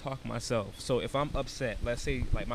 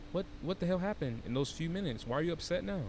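put-on baby talk; 4 semitones higher than usual. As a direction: check in with yourself like a child. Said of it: "I baby talk myself".

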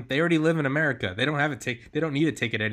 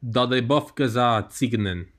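slower repeat of "do de bof gaza tsignen"; repeated on request; 3 dB louder, slower than usual. Real, not acted. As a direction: say "do de bof gaza tsignen" slowly for someone who missed it. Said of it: "Say that again?".

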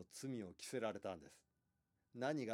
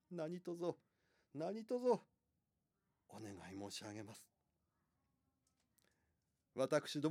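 tearful pleading wife; 3 semitones higher, 4 dB louder than usual. Acted. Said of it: "泣いて止めるんです".

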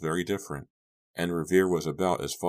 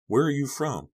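bright, high curious question; eager question; 10 semitones higher, 4 dB louder than usual. A narrator's reading. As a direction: ask it brightly, pitched up.

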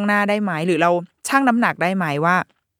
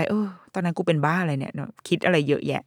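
self-mocking mutter; 5 dB quieter than usual. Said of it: "มองย้อนกลับไป".

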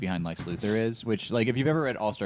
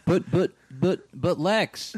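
high, stammering redneck objection; mock redneck; 7 semitones higher, much slower than usual. Comic protest for Lex among podcast friends, mock redneck. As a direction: put on a higher-pitched sputtering redneck voice. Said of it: "I made him a redneck".

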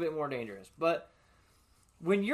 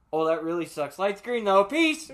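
mocking farewell; 3 semitones higher, 7 dB louder than usual. Mock farewell to stalled driver.

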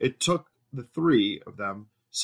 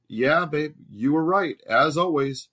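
wife voice; 6 semitones higher, 5 dB louder than usual. A narrator's reading. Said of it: "replied Mary".

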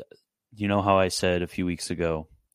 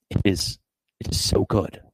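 whispered awe; 3 dB louder than usual. Real, not acted. Gushing over the work.

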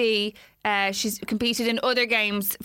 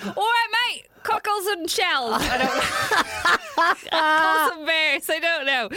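hammed-up cockney, much higher; mock London bloke voice, pitched up; a badly faked English accent, laughing through it; 6 semitones higher, slower than usual. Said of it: "the worst English fucking accents ever".

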